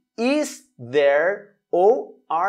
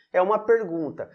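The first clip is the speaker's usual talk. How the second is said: usual speaking voice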